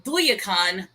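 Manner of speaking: Duyakan as DOO-ya-kan, with a Y; variant pronunciation. Shown as a demonstration. Listing possible names of the creature, Duyakan with a Y glide. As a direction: stress the first syllable of Duyakan. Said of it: "So it's either the".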